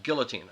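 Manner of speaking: put-on "guillotine" with the L sounded, GIL-uh-teen; "guillotine" said as GILL-uh-teen; pronounced with L. Shown as a demonstration. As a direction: repeat "guillotine" with a clear L. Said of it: "he would say guillotine".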